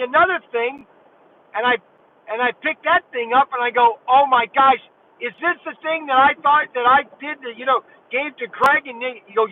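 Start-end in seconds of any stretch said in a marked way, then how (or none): 4.1-8.9 retold excitement. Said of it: "I almost lost it then".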